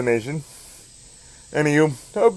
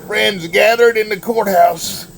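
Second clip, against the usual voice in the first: terrible Larry the Cable Guy. Acted. Reading Deputy Mater aloud to listeners, in a hammed-up redneck Southern accent. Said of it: "that was me doing a terrible Larry the Cable Guy impersonation".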